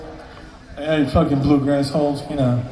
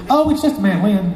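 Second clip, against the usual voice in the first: higher-pitched dismissive boss; Charlie; 4 semitones higher than usual. Acted. Boss waving away the worker's worry, high-pitched. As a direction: brush it off in a high caricature. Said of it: "high-pitched voice".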